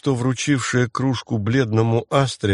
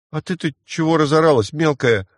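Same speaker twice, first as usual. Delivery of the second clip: всхлипывая; 5 semitones higher than usual. Acted. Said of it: "всхлипнул мальчишка".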